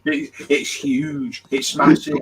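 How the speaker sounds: hammed-up suggestive tease; mock innuendo. Mock innuendo after that's what she said.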